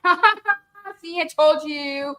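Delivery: gloating. Retold or imitated. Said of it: "and I'm gloating".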